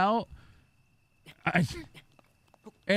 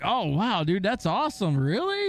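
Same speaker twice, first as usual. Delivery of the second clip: fake hype; 4 semitones higher than usual. Shown as a demonstration. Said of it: "You gotta be like".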